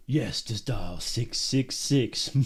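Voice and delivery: slow, low sinister voice; menacing villain phone line; evil voice. Pretend. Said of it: "With an evil laugh right after".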